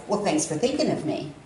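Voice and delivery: low, put-out sarcasm; sarcastic thanks. Shown as a demonstration. Woman shows how cousin misread her, sarcastic. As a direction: say thanks as if snubbed, pitched low. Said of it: "And he read that as".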